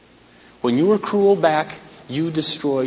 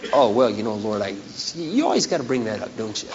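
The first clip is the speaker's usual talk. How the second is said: sheepish mumble; 5 semitones lower, 5 dB quieter than usual. Retold or imitated. Sheepish reply to God.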